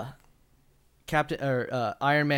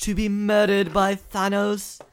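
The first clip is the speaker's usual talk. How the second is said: higher, louder, slow mock villain decree; booming villain voice; 8 semitones higher, 8 dB louder than usual. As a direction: announce it like a grand tyrant. Mock Thanos pronouncement.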